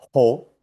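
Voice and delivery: "jo" as German ho, loud audible H; sounded H. Shown as a demonstration. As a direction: breathe the H into "jo", like ho. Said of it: "La H con la O".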